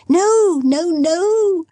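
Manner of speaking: high, bright gleeful protest; gleeful girl teasing her father; childlike glee. Acted. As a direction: squeal it like a delighted child. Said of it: "with the glee of a child".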